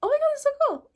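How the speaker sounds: squealed delight, acted out; retold amazement. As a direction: gush with playful awe. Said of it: "I was like".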